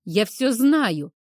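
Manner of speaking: tearful, slow shouting; angry crying. Acted. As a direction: yell it through tears. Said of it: "сквозь слёзы прокричала Ким".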